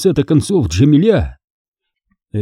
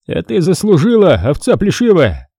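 sneering raised voice, lording it; higher sneering young man; mocking student; 5 semitones higher than usual. A narrator's reading. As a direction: jeer at her from above. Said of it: "глумился студент".

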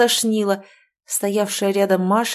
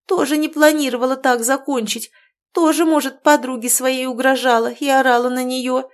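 loud, scornful tirade, raised high; furious outburst; 5 semitones higher, 4 dB louder than usual. Acted. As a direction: lash back at the friend who yelled. Quarrel continues over the body.

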